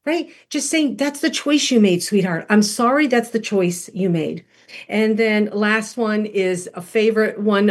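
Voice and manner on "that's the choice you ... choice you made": calm, no yelling. Retold or imitated. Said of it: "no yelling, no condemning".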